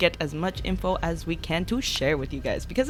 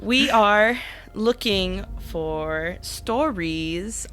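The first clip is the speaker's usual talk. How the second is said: slow; much slower than usual. Acted. Announcing a call for stories.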